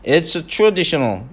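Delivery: it's traditional very slow, traditional stressed; slow model reading. Shown as a demonstration. 선생님이 it's traditional을 천천히 시범. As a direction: draw out it's traditional slowly. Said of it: "그렇죠".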